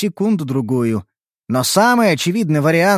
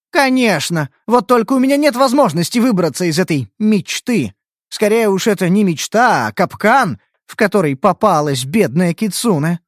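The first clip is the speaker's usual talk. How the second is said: put-on whining fox girl; 5 semitones higher than usual. Kitsune complains.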